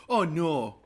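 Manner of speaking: long round Midwestern "no"; Midwest accent. Shown as a demonstration. Demonstrating the accent after visiting home, Midwest accent. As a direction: stretch the o's in a northern Midwest accent. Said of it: "I'm from the Midwest originally".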